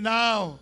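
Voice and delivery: now punched loud; stress on now. Shown as a demonstration. Pastor calling congregation to repeat, now stressed loud. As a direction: hit the word now hard. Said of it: "Say it with me".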